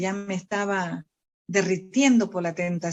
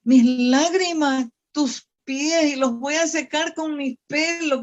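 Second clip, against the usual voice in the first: tearful prayer; 5 semitones higher, 4 dB louder than usual. Retold or imitated.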